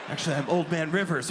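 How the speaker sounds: hams up a ghostly hotel clerk; spooky desk clerk. Retold or imitated. Clerk keeps spooky act.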